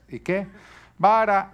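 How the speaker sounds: sudden loud high call of vara; stern father. Retold or imitated. Father answering his defiant son, loud and sharp. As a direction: bark the verdict like a stern dad.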